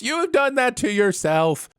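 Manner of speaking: high, slow melodramatic shout back; hammed-up retort from an epic duel; mock shouting. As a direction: shout the accusation back, theatrically. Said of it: "then someone else shouts".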